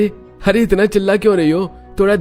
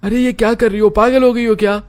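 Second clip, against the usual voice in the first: very high, louder protest; alarmed husband; 13 semitones higher, 5 dB louder than usual. Acted. Husband pelted with clothes by his wife, high alarmed voice. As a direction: cry out in high-pitched disbelief.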